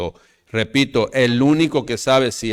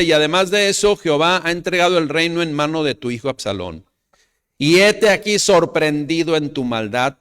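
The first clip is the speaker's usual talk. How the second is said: loud, high pulpit voice; full-force sermon delivery; fiery preaching; 5 semitones higher, 4 dB louder than usual. Acted. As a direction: drive the story home to the church. Preacher reads scripture aloud.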